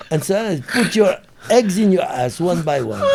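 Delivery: laughing while retelling. Real, not acted. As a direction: chuckle through the line. Retelling the boy's rude line, laughing.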